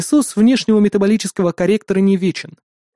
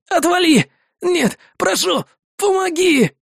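very high, pained shout turning to plea; desperate begging; 12 semitones higher, slower than usual. Acted. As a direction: push him away, then beg. Soldier swings from rage to begging.

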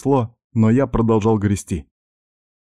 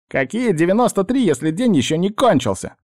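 much higher, rising in nervous protest; 11 semitones higher than usual. Acted. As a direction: squeak out the objection. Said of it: "высокий нервный голос".

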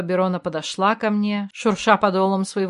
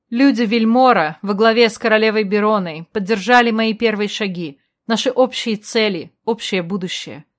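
formal speech; 3 dB louder than usual. A narrator's reading. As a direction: address the crowd like a new queen. Queen's speech continues.

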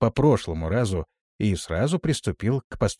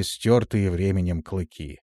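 usual speaking voice

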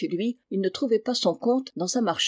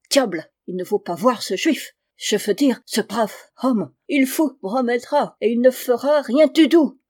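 thick German accent, French words softened and devoiced; 4 semitones higher, 6 dB louder than usual. German recruiter coaxing father Thomas, in a thick German accent. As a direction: play a German gentleman bargaining in heavy German-accented French.

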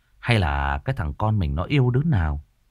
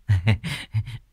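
giddy giggle. Acted. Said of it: "nghe răng cười".

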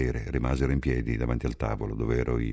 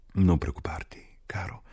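slow, higher whisper; 5 semitones higher than usual. A narrator's reading. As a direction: reassure him in a whisper. Catherine sussurra. (sussurro lento e acuto)

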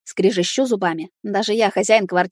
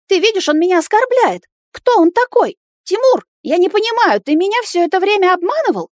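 much higher, louder accusing tirade; furious rant; 11 semitones higher, 5 dB louder than usual. Acted. Nata accuses Timur of lying about the child, screaming. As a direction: hurl the accusations, outraged.

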